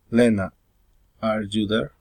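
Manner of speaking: "are you there?" rising on "there"; rising intonation. Shown as a demonstration. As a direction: call "Lena", then lift "there". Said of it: "rising intonation".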